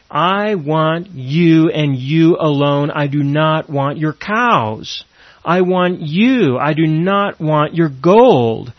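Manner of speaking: slow, deliberate plea, each word weighed; earnest slow prayer. Pretend. Believer telling God he wants only Him, slow earnest plea. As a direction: plead to God slowly, meaning every word. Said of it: "Can you say to Him".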